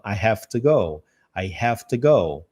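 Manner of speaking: "I have to go" slow, with "have to" as "hafta"; slow linked demo. Shown as a demonstration. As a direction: model "I have to go" slowly, linked. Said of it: "soa mais fácil na hora de juntar". ("I have to go" devagar, ligando "have to")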